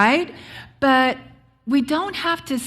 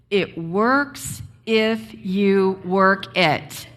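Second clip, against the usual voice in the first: said together; much slower than usual. Shown as a demonstration.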